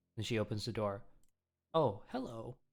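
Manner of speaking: ordinary talk, nothing marked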